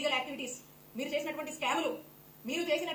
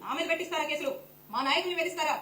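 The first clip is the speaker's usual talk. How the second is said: louder, heated accusation; angry shouting; 5 dB louder than usual. Real, not acted. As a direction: shout it at the rival panelist. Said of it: "అరవకు". (కోపంగా గట్టిగా అరుపు)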